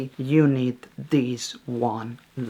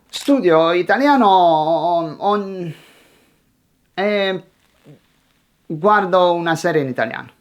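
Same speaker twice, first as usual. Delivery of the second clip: halting learner abandoning the sentence; unfinished thought; 3 semitones higher than usual. Shown as a demonstration. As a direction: stall mid-sentence, then rush to the next idea. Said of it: "you never finish them".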